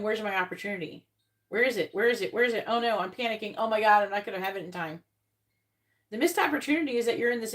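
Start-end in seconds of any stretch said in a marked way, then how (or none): 0.0-5.0 fretful and rushed, repeating the question; mock panic. To Katerina, imitating someone waiting anxiously, mock panic. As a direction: play someone anxiously demanding where it is. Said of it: "you're sitting around and you're going".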